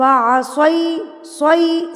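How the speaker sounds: slow असय, ending in a glide from a to ee. Shown as a demonstration. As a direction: let सय slide into ee, not e. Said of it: "ई लगाना है".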